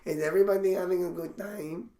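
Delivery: gay Hispanic stage persona. Pretend. Comic previewing club opening, campy Hispanic voice. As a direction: welcome the room in a mock Hispanic accent. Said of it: "that's gonna be me".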